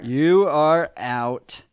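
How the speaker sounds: very slow, emphatic ruling; mock judge's dismissal. Judge throws the dad out, mock emphatic. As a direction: draw out each word like an umpire.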